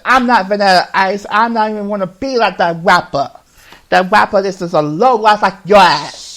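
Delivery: loud, scornful coach voice; mock angry retort. Coach insulting the boy, loud and scornful. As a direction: throw it back at him, offended.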